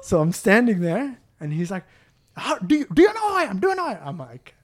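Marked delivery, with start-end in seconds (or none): 2.4-4.1 put-on high, stammering Indian-accented indignation; high-pitched, spluttering mock Indian accent; Indian accent imitation. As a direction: mimic an affronted man's Indian accent. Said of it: "Indian accent".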